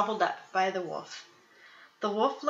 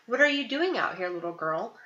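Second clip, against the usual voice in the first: forced friendly wolf. Acted. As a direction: sound as nice as a wolf can. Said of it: "in a voice as friendly as he could muster".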